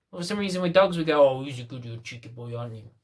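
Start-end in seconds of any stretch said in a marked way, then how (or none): 1.3-2.9 put-on softer, doting baby-talk to a dog; cooing at a dog. Owner praising a runaway dog, soft doting coo. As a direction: gush over the naughty pup.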